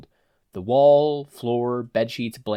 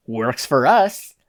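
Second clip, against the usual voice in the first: slow, louder dismissal; cold thug; 2 semitones higher, 8 dB louder, much slower than usual. Acted. Hojo dropping Izuku, slow and cold. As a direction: let go without care.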